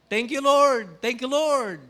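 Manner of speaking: high, loud crowing rooster giving thanks. Retold or imitated. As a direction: crow the thanks like a proud rooster. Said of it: "Alam niyo ibig sabihin sa manok nun?".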